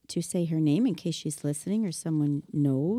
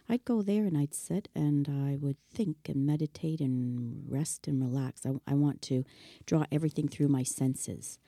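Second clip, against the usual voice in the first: dreamy and serene. Real, not acted. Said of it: "Mary, what would you do?".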